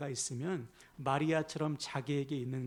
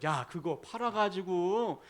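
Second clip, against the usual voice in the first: mildly huffy, drawn-out complaint; a touch of put-on outrage; indignant Judas; 2 semitones higher than usual. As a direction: grumble in mock indignation as Judas. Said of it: "유다가 발끈합니다".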